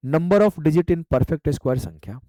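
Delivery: very slow, word by word, for students to write; slow dictation. Shown as a demonstration. Teacher dictating a term to students, very slow. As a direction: spell out "number of digit in perfect square" at dictation pace. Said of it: "teacher dictating the phrase slowly".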